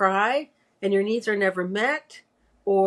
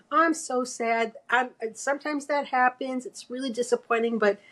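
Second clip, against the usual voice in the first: comforting mother; 4 semitones higher than usual. Pretend. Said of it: "she should have said".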